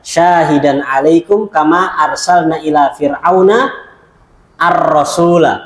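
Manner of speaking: slow, measured verse recital; Quran recitation. Acted. Teacher citing Surah Muzammil to students, slow recital.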